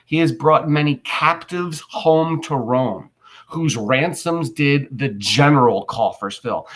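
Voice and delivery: slow, measured Shakespeare line read aloud; slow recitation. Shown as a demonstration. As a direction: read it out slowly for the class. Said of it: "listen to what he just said".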